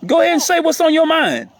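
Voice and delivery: high-pitched coaxing, falling at the end. Real, not acted. Urging a shy little one to speak, coaxing.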